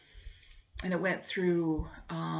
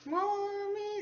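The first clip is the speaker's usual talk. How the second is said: put-on high, long-held little-girl whine; Rachel; 13 semitones higher than usual. Daughter softening mom up for the big ask, wheedling. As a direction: stretch it out high, angling for something. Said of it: "here comes the big ask".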